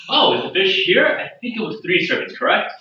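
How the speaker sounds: lifted voice, feigning obliviousness; innocent inquiry. Acted. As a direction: play innocent about your food order. Player acts innocent in tense bar.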